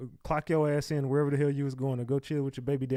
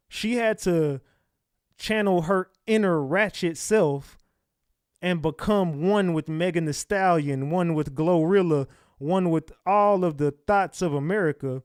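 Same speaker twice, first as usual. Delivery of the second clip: sarcastic build-up; 2 semitones higher, 3 dB louder, slower than usual. Real, not acted. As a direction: lay the irony on thick. Sarcastic mock-grand summary.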